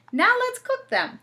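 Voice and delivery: put-on high, eager kid voice. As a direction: bounce it up with eagerness. Jimmy eager to cook.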